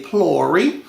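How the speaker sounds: "plory" with one long open vowel before the r; "plory", rhyming with "story"; Caribbean Indian pronunciation. Shown as a demonstration. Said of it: "Indian-speaking Caribbean nations, they would say".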